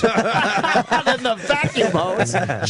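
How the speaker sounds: high-pitched, drawn-out words through laughter; laughing. Real, not acted. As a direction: crack up while repeating the punchline. Breaks up at the joke.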